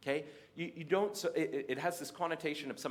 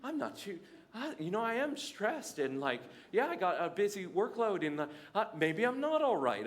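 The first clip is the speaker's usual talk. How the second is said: anxious self-talk; 6 semitones higher than usual. Retold or imitated. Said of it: "I was like".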